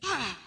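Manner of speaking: short mock yell of pain; imitated yell. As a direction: imitate someone crying out "ah". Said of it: "dia yang berteriak".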